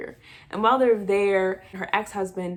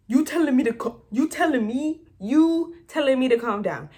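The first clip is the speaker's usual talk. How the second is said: higher, louder mock outrage; indignant retort; 6 semitones higher, 4 dB louder than usual. Wife answering the therapist, imitated indignation. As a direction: throw it back in offended disbelief.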